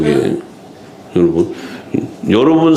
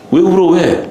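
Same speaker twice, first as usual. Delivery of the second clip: high-pitched retold rebuke; mock scolding; 6 semitones higher than usual. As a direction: demand it in a raised pitch, as if telling them off. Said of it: "그냥 막 뭐라 그러잖아요". (높은 음으로 따지듯 꾸짖는 흉내)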